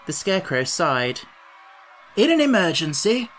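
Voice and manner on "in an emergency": high, loud pronouncement; announcing. A narrator's reading. Scarecrow advises his companions in danger, announcing. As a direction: announce it like a maxim. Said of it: "he announced".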